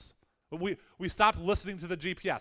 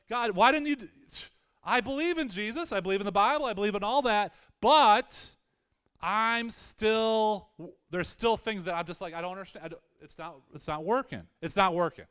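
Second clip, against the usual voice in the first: a touch of baffled pleading, building then fading; pleading with God; 3 semitones higher than usual. Retold or imitated. Voicing a believer pleading with God.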